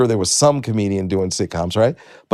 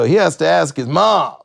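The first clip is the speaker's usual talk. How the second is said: higher, emphatic incredulous report; mock disbelief; 7 semitones higher, 4 dB louder than usual. Star comedian to his writers, mock-incredulous announcement. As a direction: pass it on to the room, imitating amazement. Star relays absurd news to room.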